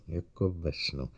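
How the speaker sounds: 1 fading dreamy echo. A narrator's reading. Narrator echoes dreamlike phrase.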